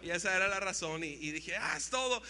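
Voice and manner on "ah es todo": higher, delighted "es todo" with stress on "todo"; "Ah, es todo" stressing "todo" as a happy win; excited. Retold or imitated. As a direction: lift "todo" like the jackpot. Teen boy deciding she's the one.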